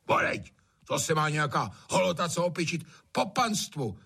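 a hint of a gruff landlord agreeing; grumbling agreement. A narrator's reading. Trautenberg agreeing with the gamekeeper, grumbling. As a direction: nod along grumpily. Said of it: "přikivuje Trautenberg".

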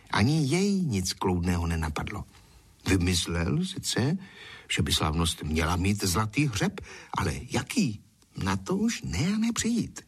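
usual speaking voice

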